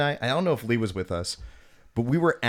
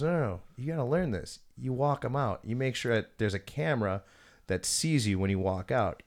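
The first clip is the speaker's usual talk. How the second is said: mock creep patiently instructing, kept quiet; lightly voiced nasal creep; nasally weird talker; 5 dB quieter than usual. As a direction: softly imitate a creepy nasal guy giving advice. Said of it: "he's kinda nasally".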